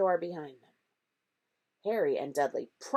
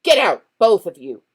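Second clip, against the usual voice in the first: croaked order; 3 semitones higher, 14 dB louder than usual. A narrator's reading. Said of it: "croaked Uncle Vernon".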